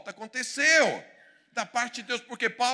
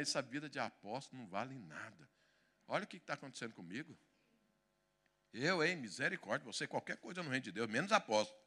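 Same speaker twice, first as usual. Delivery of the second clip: grumbling complaint; 8 semitones lower, 9 dB quieter, faster than usual. Retold or imitated. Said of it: "Paulo podia tá falando".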